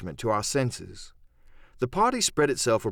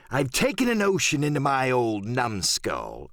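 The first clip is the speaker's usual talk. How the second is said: Silver. Acted.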